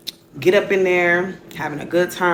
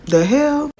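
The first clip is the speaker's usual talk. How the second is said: high, startled question; baffled disbelief; 11 semitones higher, 4 dB louder than usual. Retold or imitated. Retelling her reaction to an all-pink apartment, baffled disbelief. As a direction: pitch it way up, taken aback.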